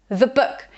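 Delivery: the whispered-quick as thuh, weight on book; stress on book. Shown as a demonstration. Teacher demonstrating the weak form, stress on book. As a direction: throw away the, land on book. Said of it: "just stress the word book".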